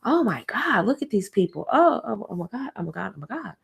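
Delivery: mock dismay trailing away; fake shocked gossip. Catty coworker feigning shock at office drama, fading to a hush. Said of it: "they come out like".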